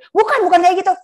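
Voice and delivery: loud, high angry retort; patient slams the table and shouts at the nurse, loud angry retort; patient snapping. Acted. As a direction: bark it back at the nurse, fed up. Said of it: "Kalau dia bentak meja".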